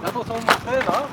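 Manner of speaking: speaking round a gum shield; wearing a mouthguard. Real, not acted. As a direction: mouthguard muffling the words. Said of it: "Amazing what it does for your speech".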